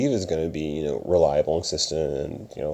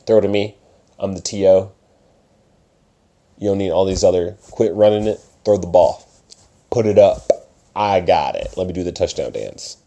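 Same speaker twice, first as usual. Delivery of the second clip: a louder, pushy wide receiver; demanding receiver; 4 dB louder than usual. Pretend. Receiver demanding the quarterback throw to him, louder. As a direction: demand the ball like a diva receiver. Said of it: "wide receiver syndrome".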